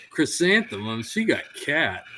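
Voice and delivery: put-on a lighter echo of the indignant kid voice; kid protest, lighter. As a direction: toss the kid's complaint off quickly. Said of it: "It's like".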